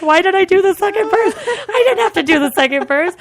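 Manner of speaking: high, loud comic wail; exasperated regret. Retold or imitated. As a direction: wail at your own mistake. Regrets singing on to dismayed diners.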